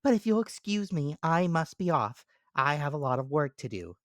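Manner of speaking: high squeaky ant character. Acted. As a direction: voice the ant as small and sensible.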